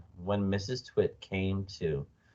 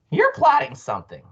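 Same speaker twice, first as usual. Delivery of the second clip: high, loud accusation; suspicious Mrs Twit; 6 dB louder than usual. A narrator's reading. Wife accusing her scheming husband, high and loud. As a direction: pitch up sharply into an accusing wife's voice.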